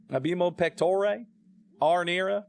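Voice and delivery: badly faked Italian accent; hammed-up Italian accent; Brad Pitt. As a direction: do a clumsy American attempt at Italian. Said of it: "sound like Brad Pitt trying to do an Italian accent".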